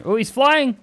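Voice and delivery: high, loud burst of excitement; excited exclamation. Real, not acted. Reacts to in-game jump.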